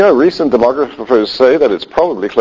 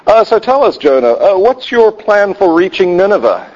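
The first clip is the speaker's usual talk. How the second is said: skeptical interviewer; 7 semitones higher than usual. Pretend. Interviewing Jonah about his plan.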